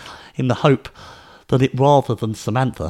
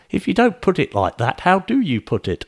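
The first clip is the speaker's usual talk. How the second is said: put-on persistent child; 8 semitones higher than usual. A narrator's reading. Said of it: "indefatigable Penelope".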